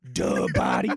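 very low dopey duh. Retold or imitated. Host mocking the cohost's answer in a low dopey voice. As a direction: say it like a dim caveman. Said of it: "Just like".

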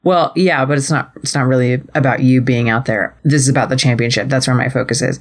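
low, fast mock sulk; being a baby. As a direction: imitate a self-absorbed partner brushing someone off. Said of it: "is also being a baby".

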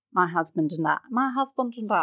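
soft, posh-style mock Queen line; put-on plummy English; playful royal imitation; mock royal accent. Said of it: "another language for me to butcher".

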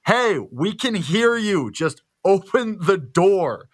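slow, high-pitched, drawn-out retold call; calling through a door. Housemate to noisy guests behind the door, calling out. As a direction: call out each word slowly, exasperated.

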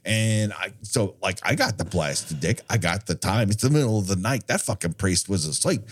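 lightly voiced old demon; a hint of a seasoned old guy. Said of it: "I'm that demon".

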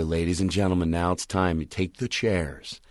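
low announcer voice, slowing down; stage announcement. Shown as a demonstration. Comic telling the audience to turn chairs, low stage announcement.

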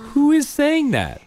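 mock surprise. Parent plays along, mock amazed.

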